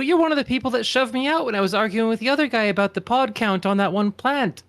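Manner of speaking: mildly heated accusation; accusing outburst. Acted. Accusing the librarian of shoving her out, heated outburst. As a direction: confront them with a touch of anger. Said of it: "you were yelling".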